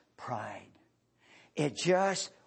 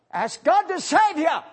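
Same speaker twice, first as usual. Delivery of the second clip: higher, louder end of the quote; lightly hammed-up climax; a mild mock proclamation; 14 semitones higher, 11 dB louder than usual. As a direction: land the punchline. Punchline of retold story.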